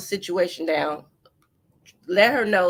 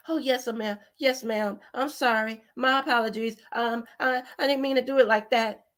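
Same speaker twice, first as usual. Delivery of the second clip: mock submissive. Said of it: "pussyfooting around".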